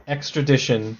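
extradition said with a short "dish" sound; corrected pronunciation. Shown as a demonstration. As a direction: repeat extradition as "ex-tra-DISH-un". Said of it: "the word is pronounced".

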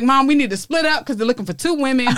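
words breaking into laughter; laughing through it. Real, not acted. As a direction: laugh while telling mom to split up. Retelling while laughing.

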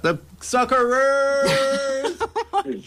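long, high, drawn-out shout; loud, soaring cheer stretched on the last syllable; excited cheer. Real, not acted. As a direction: belt out the team name like a thrilled fan. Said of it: "Sorry, I'm still excited about that".

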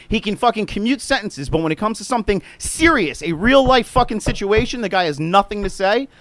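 angry escalating rant; escalating comedy rant. Real, not acted. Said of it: "I didn't mean to get all upset".

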